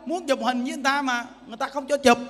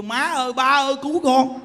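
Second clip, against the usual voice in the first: mock frightened cry; 5 dB louder than usual. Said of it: "Nó kêu".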